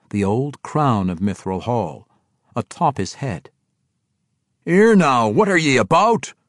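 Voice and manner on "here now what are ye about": loud, high demand; forceful dwarf challenge. A narrator's reading. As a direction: demand an answer as a dwarf king. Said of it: "King Emrys demanded".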